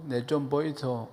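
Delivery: lightly imitated Gyeongsang speech; Gyeongsang dialect. Shown as a demonstration. Preacher translating polite standard Korean into Gyeongsang dialect. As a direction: say it as a Gyeongsang local would. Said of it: "경상도 말로".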